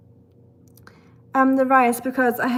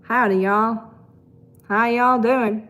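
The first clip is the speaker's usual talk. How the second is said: mock Southern greeting; 4 dB louder than usual. Newcomer mocking how to say hello, light Southern accent. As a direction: try on a Southern accent as a joke. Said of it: "Should I say it like that?".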